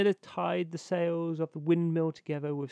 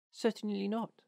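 high little bird voice; high-pitched storybook linnet; voiced Linnet; 6 semitones higher than usual. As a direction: answer firmly in a high songbird voice. Linnet answers the Water Rat.

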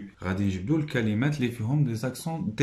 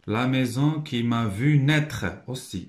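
slow reading; slower than usual. Shown as a demonstration. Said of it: "لاكسون على اي".

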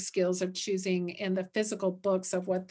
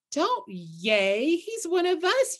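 mild yell; 6 semitones higher, slower than usual. A narrator's reading. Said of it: "yelled Pip".

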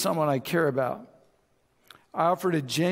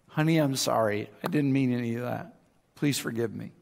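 acted apology, low and subdued; apologetic; 5 semitones lower than usual. Spouse apologizing in a marriage argument, apologetic. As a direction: play a contrite spouse, pitch dropped. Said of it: "This is classic in a marriage argument".

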